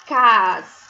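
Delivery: castelo broken into a loud CAS, then té, ló; teacher sounding out castelo piece by piece; syllable by syllable. Shown as a demonstration. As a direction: count out cas-té-ló with gaps. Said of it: "Vamos ver quantas sílabas".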